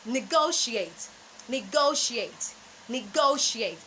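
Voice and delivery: negotiate said slowly as ni-GO-shee-ate; slow, careful negotiate, ni-go-shee-ate; correct pronunciation. Shown as a demonstration. Coach drilling students on the right negotiate. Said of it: "The correct pronunciation of that word is".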